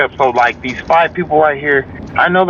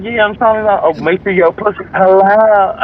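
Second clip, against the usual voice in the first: higher-pitched mock reply, slowing at the end; hammed-up girlfriend voice; imitated girlfriend; 4 semitones higher than usual. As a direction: drag out the last words in a raised voice. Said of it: "She's like".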